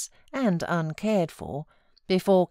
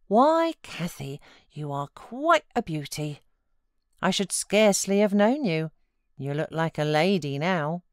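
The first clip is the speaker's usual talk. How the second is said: delighted. Acted. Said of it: "exclaiming delightedly".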